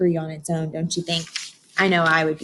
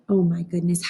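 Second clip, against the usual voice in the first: gasp of amazement. Real, not acted. Reacting to butterfly picture.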